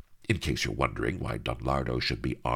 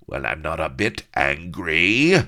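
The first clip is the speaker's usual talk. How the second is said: screaming; 2 semitones higher, 6 dB louder than usual. Acted. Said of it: "he screamed".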